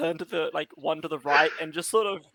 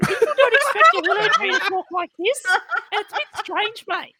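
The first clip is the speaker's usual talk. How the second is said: fast, higher Australian bogan voice; sassy bogan; 12 semitones higher, 4 dB louder, faster than usual. Acted. Tree dropping its act in a fast Australian bogan voice. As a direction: rattle it off like a cheeky Aussie bloke. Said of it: "Why does he sound like a sassy bogan?".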